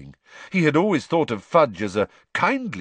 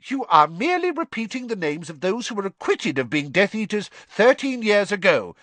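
angrily; 10 semitones higher than usual. A narrator's reading. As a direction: snap back at the boy. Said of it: "said Fudge angrily".

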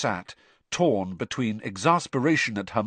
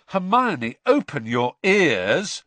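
loudly; 7 semitones higher, 4 dB louder, slower than usual. Acted. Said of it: "said Ron loudly".

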